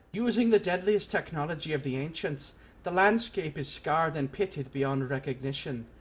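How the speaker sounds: lightly voiced warrior explaining old lore; measured character exposition; game recruiter.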